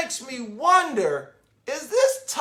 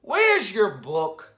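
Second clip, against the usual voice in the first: sister's voice; slower than usual. A narrator's reading.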